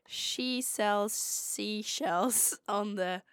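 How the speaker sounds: slow, careful American accent. Shown as a demonstration. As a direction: draw it out in an imitated American accent. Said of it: "I will say it in American".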